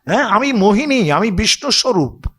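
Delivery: mock the foolish demon as Mohini; উঁচু গলায় মোহিনীর বিদ্রূপ. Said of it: "বলে".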